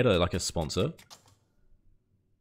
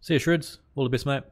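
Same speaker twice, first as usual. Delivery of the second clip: high, louder sing-song goodbye; sing-song farewell; 6 semitones higher, 4 dB louder than usual. Real, not acted. Streamer bids a departing viewer a chirpy goodbye. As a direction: wave him off brightly.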